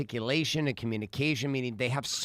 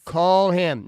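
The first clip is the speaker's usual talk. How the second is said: loud, higher-pitched order; insistent command; 4 semitones higher, 8 dB louder than usual. Retold or imitated. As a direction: retell a dad insisting loudly. Dad insisting in retold quarrel.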